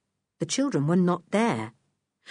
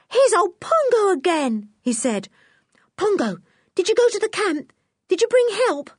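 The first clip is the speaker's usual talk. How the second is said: put-on much higher and louder, delighted boy; joyful cry; 13 semitones higher, 5 dB louder than usual. A narrator's reading. Boy greeting his chimpanzee, overjoyed. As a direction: burst out with joy at the chimp. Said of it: "Nobby gave a cry of joy".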